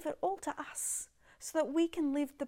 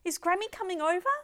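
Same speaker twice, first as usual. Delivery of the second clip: little granddaughter; 6 semitones higher, 4 dB louder, much faster than usual. Retold or imitated. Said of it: "she wakes up ... says".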